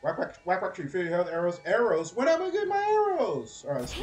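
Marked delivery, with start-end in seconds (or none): 1.6-2.1 a louder, insistent call of Arrows. Real, not acted. Impatient gamer calling for arrows. 2.1-3.6 much higher, louder whiny complaint; impatient whine. Real, not acted. Impatient gamer calling for arrows.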